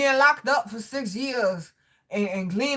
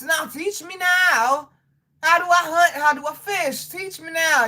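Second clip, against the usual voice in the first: higher and louder, insisting; insistent demand; 6 semitones higher, 4 dB louder than usual. Real, not acted. Asking viewers to teach her hunting, insistent. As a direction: demand it right now.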